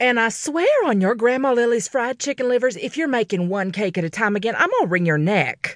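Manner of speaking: bellowed, sharp, fast, edged with panic. Narrator voicing a mother calling from another room, in a sharp, panicky tone. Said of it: "Her tone was sharp and edged with panic".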